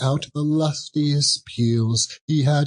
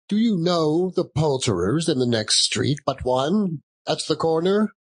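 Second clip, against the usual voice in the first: higher eager questioning; lightly higher keen old man; eager Scrooge; 5 semitones higher than usual. Acted. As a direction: press the boy for directions. Scrooge asks boy.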